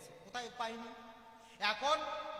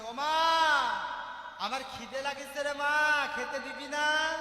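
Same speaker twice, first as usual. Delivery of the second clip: put-on crying child; 2 semitones higher, 10 dB louder, slower than usual. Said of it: "হাউ করে কাঁদছে".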